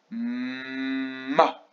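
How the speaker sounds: MA with a very long hummed M; syllabe isolée. Shown as a demonstration. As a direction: hum the M, then burst into Ma. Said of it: "s'intéresser à la deuxième syllabe". (« Ma » avec un M très longuement tenu)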